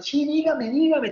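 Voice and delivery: high, light, lightly acted cheer; cheerful. Innkeeper greets the crying woman, mildly cheerful. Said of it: "todo alegre".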